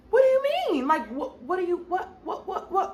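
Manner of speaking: incredulous. Retold or imitated. Incredulous questioning of the lawyer.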